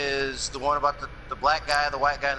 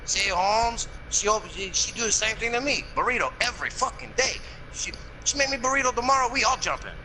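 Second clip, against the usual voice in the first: mock Mexican accent; 7 semitones higher than usual. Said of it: "He goes".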